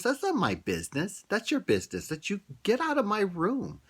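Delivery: high, loud retort throwing him out; angry outburst. Retold or imitated. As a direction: shout him out of the room. Daughter throws father out.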